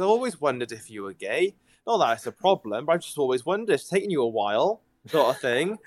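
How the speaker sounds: a light Welsh lilt for his mum; mild Welsh mum accent. Retold or imitated. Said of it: "you went more Welsh".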